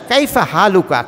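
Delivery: কাইফা হালুকা said in full, careful classical Arabic; pure Arabic. Shown as a demonstration. Imam showing the congregation pure Arabic greeting, careful pronunciation. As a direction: pronounce কাইফা হালুকা as clean, complete formal Arabic. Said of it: "বিশুদ্ধ ভাষা".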